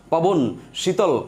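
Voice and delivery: পবন, শীতল as separate words, each shut on its last consonant; closed syllables. Shown as a demonstration. Teacher proving the words cannot be extended, closing off পবন and শীতল. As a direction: stop on the final consonants of পবন and শীতল, pausing after each. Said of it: "আপনি কিন্তু বাড়াতে পারছেন না".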